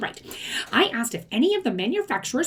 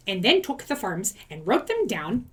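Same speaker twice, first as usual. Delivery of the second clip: accidental Irish accent. Real, not acted. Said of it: "that sounded like I had an Irish accent there".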